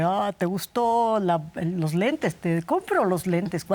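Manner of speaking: drawn-out, showy generous offer; lightly acted magnanimous giver; mock generosity. Guest playing the partner who controls the money, mock generous. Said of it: "de manera generosa, diciéndote".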